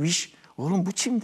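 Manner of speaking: aunt's Erzurum dialect, lightly imitated. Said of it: "O Erzurum şivesiyle dedi ki".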